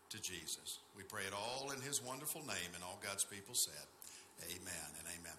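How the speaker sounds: subdued, reverent public prayer; pastoral prayer. Real, not acted. Pastor thanking the Father for his church, reverent prayer.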